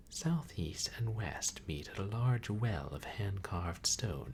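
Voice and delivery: grand, relishing descriptive read; story narration. Acted. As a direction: savour the lavish description. Reading game narration.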